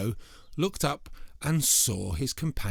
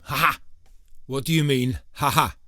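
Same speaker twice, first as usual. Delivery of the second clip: booming, much louder ha ha; loud troll laugh; 4 semitones higher, 8 dB louder than usual. Acted. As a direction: bellow it as the troll leaps out. Troll jumps out, goat retorts.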